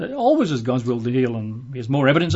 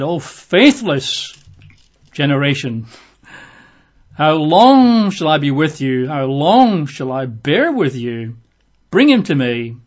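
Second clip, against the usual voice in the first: slow, weighty exasperated rebuke, rising louder; a teacher fed up with his followers; frustrated rebuke; 5 dB louder, slower than usual. Retold or imitated. Jesus rebuking the faithless crowd, slow and exasperated. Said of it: "Jesus is really quite frustrated".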